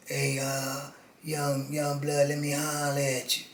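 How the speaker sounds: put-on quiet, slow raspy older inmate; lightly voiced low raspy con; softly imitating Teaspoon's low rasp. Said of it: "he talk low with a little raspy voice".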